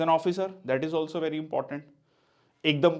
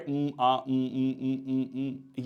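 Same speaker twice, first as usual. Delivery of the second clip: filler hums; 3 dB quieter, much slower than usual. Shown as a demonstration. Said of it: "but avoid".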